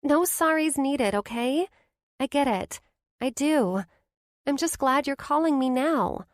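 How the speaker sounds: high, reassuring friend's voice; best friend, kind and sure; comforting Blair. A narrator's reading. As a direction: ease her friend's guilt.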